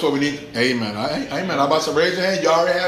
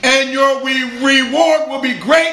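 high, loud scripture proclamation; ringing pulpit declaration; full-force preaching; 8 semitones higher, 5 dB louder than usual. Acted. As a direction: preach it out, drawing out the last words.

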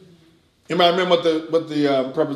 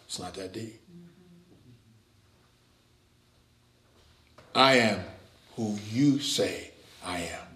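quiet inner confession; 7 semitones lower, 8 dB quieter than usual. Retold or imitated. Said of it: "you can say of a truth in your heart of hearts".

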